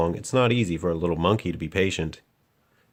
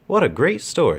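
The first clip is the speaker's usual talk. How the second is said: put-on delighted girl; 6 semitones higher, 4 dB louder than usual. A narrator's reading. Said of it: "she said".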